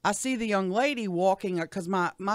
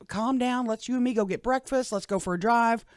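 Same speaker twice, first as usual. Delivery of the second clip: higher-pitched mild holler; insistent, pitched-up retold call; 5 semitones higher than usual. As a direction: re-enact urging her to calm down. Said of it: "but I hollered at her".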